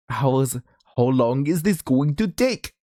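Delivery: attempted Indian accent. Shown as a demonstration. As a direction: try an Indian accent, not quite nailing it. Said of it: "was that the good Indian accent".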